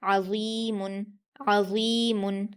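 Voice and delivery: अज़ीमुन with a full heavy ẓā like dhal; emphatic ẓā recitation; heavy zaa. Shown as a demonstration. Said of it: "पुर पढ़ेंगे और जाल के मखरज की तरह".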